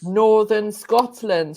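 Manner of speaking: Northern Scotland said slowly, each word weighted; slow emphatic repeat. Shown as a demonstration. Repeating it for the confused panel, slow and pointed. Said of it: "He just said".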